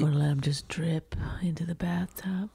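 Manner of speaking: hushed teasing whisper. Real, not acted. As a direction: breathe it as a whisper.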